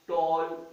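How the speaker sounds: टॉल slowly, in one unbroken piece; one unbroken syllable. Shown as a demonstration. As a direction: say टॉल as a single held beat. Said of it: "इसको बोलने में हमें लफ्जों को तोड़ना नहीं पड़ा".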